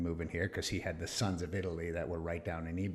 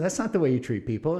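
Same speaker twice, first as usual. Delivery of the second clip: higher, louder mock outburst; retold outrage; 7 semitones higher, 5 dB louder than usual. Telling the Navy off over his daughter, mock angry. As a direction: let the old anger flare in the retelling. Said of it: "I said".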